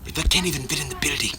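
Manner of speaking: a hint of dim indignant model; Derek Zoolander. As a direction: lightly play a male-model character. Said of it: "You want me to do Derek Zoolander?".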